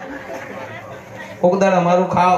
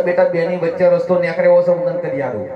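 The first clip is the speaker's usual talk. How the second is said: saint answers; 4 semitones lower than usual. Retold or imitated.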